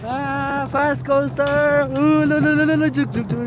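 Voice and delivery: high, drawn-out squeal into babble; thrilled shriek. Real, not acted. Rider on the fast coaster, thrilled high shrieking. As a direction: squeal long and high with the speed.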